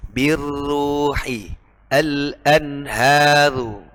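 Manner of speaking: Birruhi al-anharu with the r wrongly thin; slow recitation, light thin r; mispronounced al-anharu, thin ra; too thin ra. Shown as a demonstration.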